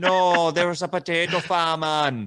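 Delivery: Irish accent drifting into Jamaican. Showing how a European accent attempt drifts: Irish accent drifting Jamaican. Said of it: "talking like this, like a Jamaican".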